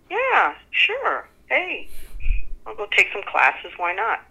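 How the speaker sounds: retelling how keenly she said yes to the classes; eager yes. Retold or imitated. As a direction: jump at the offer with a high eager lift. Eagerly accepting the offer.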